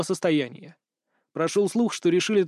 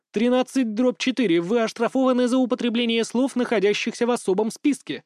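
high robotic announcement; mechanical voice; 5 semitones higher than usual. Acted. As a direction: read it like a machine. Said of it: "изрыгал механический голос". (механический голос)

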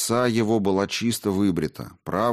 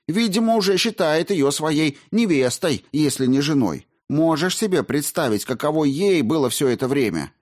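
put-on indignant young woman; 6 semitones higher than usual. Margarita speaks.

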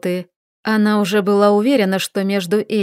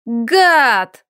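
angry shout after him; 2 semitones higher than usual. A narrator's reading. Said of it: "донеслось ему в спину".

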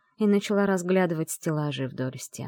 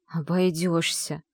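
hissed; slower than usual. Acted. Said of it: "прошипела я, сжав зубы".

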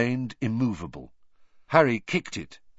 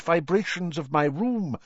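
high, airy professor voice; mystical professor; 9 semitones higher than usual. A narrator's reading. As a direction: voice a high-pitched clairvoyant teacher.

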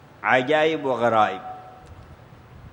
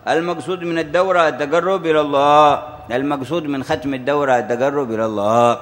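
emphatic preaching; 2 semitones higher, 3 dB louder than usual. Real, not acted. Teacher telling students the aim is nearness to God, emphatic preaching. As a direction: hammer each repeated phrase home like a preacher. Drives home the lesson in refrain.

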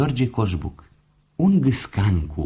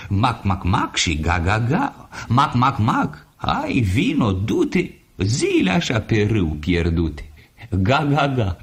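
quacking and honking; 2 semitones higher than usual. Acted. Ducks and geese calling.

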